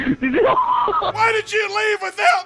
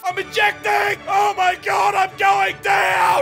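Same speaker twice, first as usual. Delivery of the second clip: mock pilot panic; 2 semitones higher, 4 dB louder, slower than usual.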